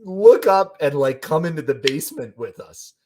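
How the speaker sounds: high, loud imitation of a frantic plea; exasperated pleading. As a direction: plead at the top of your range, easing down gradually. Retelling the woman's urgent plea.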